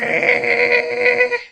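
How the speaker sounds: high, sharp gasp of fright; shrill gasp. Acted. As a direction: gasp in sudden terror. Scream cue before gasp.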